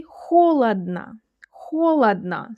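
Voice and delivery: холодно said KHO-lad-na; холодно, stressed first o, then reduced vowels; only first o full. Shown as a demonstration. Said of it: "only the first one sounds like O".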